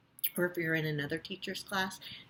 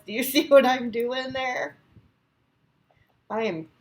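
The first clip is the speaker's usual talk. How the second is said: laughing, loud and high; 5 semitones higher, 10 dB louder than usual. Real, not acted. Teacher laughs showing kids her messy picture, laughing. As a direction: giggle through the question.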